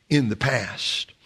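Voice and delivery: "in the past" slowly, each word weighted; stress on "in the past". Shown as a demonstration. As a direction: draw out "in the past" for emphasis, without raising the voice. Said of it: "Emphasis on the last three words".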